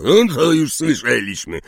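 exasperated grumble; gruff, impolite. A narrator's reading. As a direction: cut him off rudely. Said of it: "burknął niezbyt uprzejmie Hagrid".

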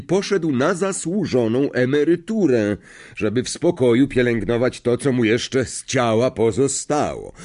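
lightly voiced headmaster addressing the hall; a touch of a ceremonial announcing voice; Dumbledore. Headmaster tells pupils of a new teacher, lightly voiced announcement.

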